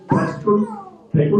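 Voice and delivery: very high, slow put-on voice; acted bagger's question. Young bagger asking a customer the typical question, high and slow.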